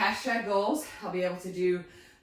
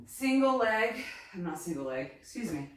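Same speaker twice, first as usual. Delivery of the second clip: out of breath. Real, not acted. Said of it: "I am out of breath".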